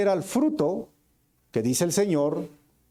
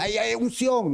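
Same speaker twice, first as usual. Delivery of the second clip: mock hoarse pastor; 6 semitones higher than usual. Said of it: "se quedan roncos y dicen".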